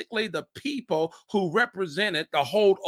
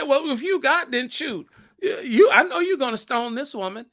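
mock challenge; 5 semitones higher, 3 dB louder than usual. Disciples challenge Jesus, acted.

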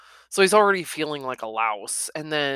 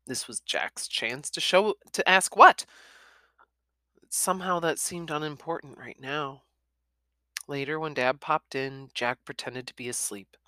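plain reading voice

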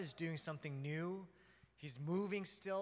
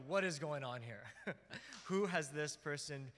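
amused disbelief breaking into a chuckle; stifled laughter. Retold or imitated. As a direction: retell it while trying not to laugh. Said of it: "just trying not to laugh".

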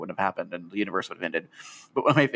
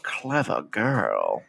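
put-on very slow, low Australian-English accent; 5 semitones lower, much slower than usual. Showing the co-host how he says it, in an Australian-English accent. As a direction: stretch each word out low, Australian-English. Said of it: "like an Australian slash English accent".

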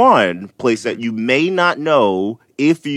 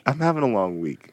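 whispered, voice almost gone; losing voice; 5 dB quieter than usual. Real, not acted. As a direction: whisper through a tired, failing voice. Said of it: "I'm losing my voice".

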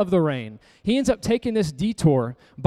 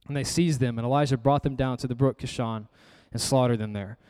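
measured Bible reading, phrase by phrase; scripture reading; 4 semitones lower than usual. A narrator's reading. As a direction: read the passage solemnly to the congregation. Reads scripture aloud to congregation.

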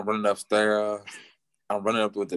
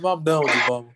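whining to mom; 6 semitones higher, 5 dB louder, faster than usual. Retold or imitated. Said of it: "I called my mother".

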